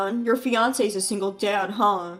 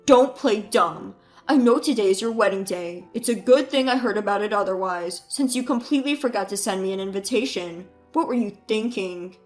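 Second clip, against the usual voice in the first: angry brother; 3 semitones lower, 4 dB louder than usual. Acted. Brother angrily calls about his missing invitation, loud. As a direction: demand an answer furiously.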